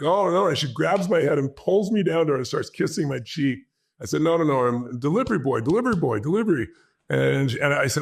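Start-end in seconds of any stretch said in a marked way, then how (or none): 0.0-0.5 higher-pitched mock dismayed protest; retold alarm. Man reacting to a screaming woman, retold alarm. 4.2-6.7 repeated protest, pitch climbing; retold flustered protest. Man telling grateful mother he only delivers, flustered protest. Protesting while being kissed.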